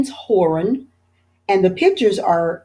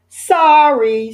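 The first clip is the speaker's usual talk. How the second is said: quick sorry; 6 semitones higher, 6 dB louder than usual. A narrator's reading. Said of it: "said Arthur".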